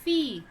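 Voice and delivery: "Fille" said as "fee", falling; pronunciation demo. Shown as a demonstration. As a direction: model French "Fille" as one falling "fee" syllable. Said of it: "How to pronounce?".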